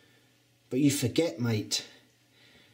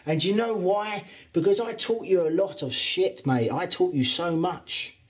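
angry rant; 4 semitones higher than usual. Acted. Trainer ranting at rival wrestler.

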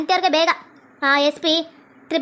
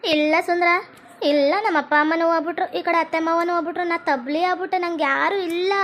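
acted crying. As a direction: play a touch of weepy despair. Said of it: "ಹಂಗ್ ಅಳ್ಬಾರ್ದು, ಅಳ್ಬಾರ್ದು". (ಸ್ವಲ್ಪ ಅಳುವಂತೆ ನಟನೆ)

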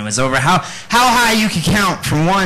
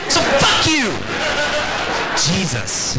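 a shouted, higher punchline; exclamatory shout; 11 semitones higher, slower than usual. Acted. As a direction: bellow it out as an exclamation. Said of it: "it's an exclamatory sentence".

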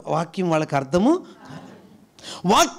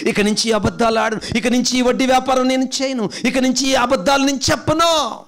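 building vow. Pretend. Voicing a resolution prayer.

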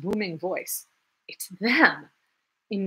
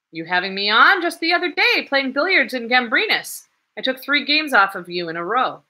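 put-on lively young man; 6 semitones higher, 7 dB louder than usual. Young man teasing Coke.

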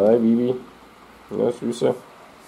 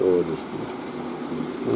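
whispering; 4 semitones lower, 7 dB quieter, much slower than usual. Real, not acted. Soothing cat while cuddling.

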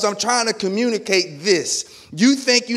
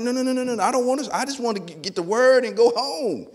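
higher-pitched, hammed-up protest of no, no, no; mock panicked refusal; 5 semitones higher than usual. Newcomer refusing the church volunteer, hammed-up higher-pitched protest. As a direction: play the reluctant new member begging off serving. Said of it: "And I'm like".

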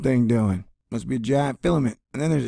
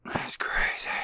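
breathy whispered aside; hushed awed whisper; 9 dB quieter, slower than usual. Real, not acted. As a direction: whisper it in awe. Whispered aside about sun.

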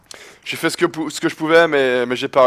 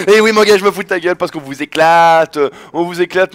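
taunting gloat; 4 dB louder than usual. Real, not acted. Gamer mocking the losing opponent, loud taunt. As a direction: rub his nose in it.

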